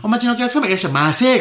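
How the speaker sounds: high sing-song "いらっしゃいませ"; bright loud shop welcome. Retold or imitated. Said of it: "めっちゃ腹立つやん".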